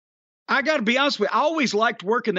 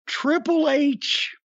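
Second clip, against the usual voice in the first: "Triple H" pitched higher and drawn out slowly; dramatic announcement; 8 semitones higher, much slower than usual. Real, not acted. Listing the lookalike cast for his co-host, a high slow "Triple H".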